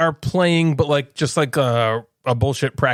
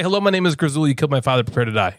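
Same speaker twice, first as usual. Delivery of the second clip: deep voice; faster than usual. Shown as a demonstration. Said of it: "in your deep voice".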